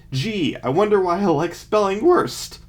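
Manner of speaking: sarcastic. Real, not acted. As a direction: roll your eyes at yourself. Sarcastic remark on own spelling.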